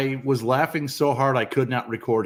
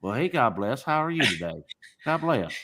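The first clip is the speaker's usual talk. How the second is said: low God bless; 4 semitones lower, 7 dB quieter than usual. Shown as a demonstration. Demoing the game's opening low greeting to scammers. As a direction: lower and softer, a low murmured God bless. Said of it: "you start out as low as you can".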